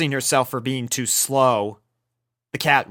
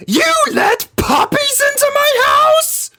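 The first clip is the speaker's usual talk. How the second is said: very high, loud horrified shriek; Rarity shrieking at Rainbow about the puppies; 8 dB louder than usual. Acted. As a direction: scream it at your friend in disbelief.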